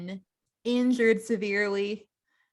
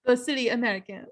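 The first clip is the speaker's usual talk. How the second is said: bad French accent; 4 semitones higher, faster than usual. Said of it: "I can't even do it".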